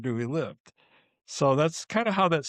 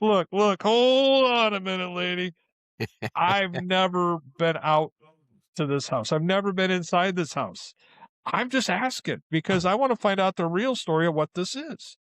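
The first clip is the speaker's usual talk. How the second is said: exasperated; 5 semitones higher than usual. Retold or imitated. Arguing back at angry lady.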